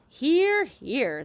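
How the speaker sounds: high, loud hearty cheer; cheering shout. A narrator's reading. The creatures cheer the ladybug against the aunts, loud cheer. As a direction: cheer agreement. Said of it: "they all shouted".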